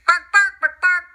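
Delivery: barking dog. Acted. Twilight bark.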